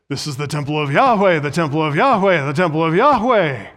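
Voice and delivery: imitating worshippers reciting their slogan; mock mantra. Preacher mimics the people's lying words, as a mantra. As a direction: repeat it as a rote, emphatic chant. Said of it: "It's their little mantra".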